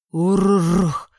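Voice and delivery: a drawn-out rolling creature grumble; grumbling creature growl. Acted. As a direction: growl it like a grumpy beast. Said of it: "проворчал похититель".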